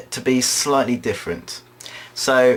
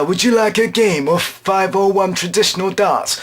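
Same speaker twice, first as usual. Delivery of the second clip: high-pitched seal character voice; talking seal; 6 semitones higher than usual. Acted. Seal invites Laura to play darts, high put-on voice. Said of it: "a seal will slump onto the stage".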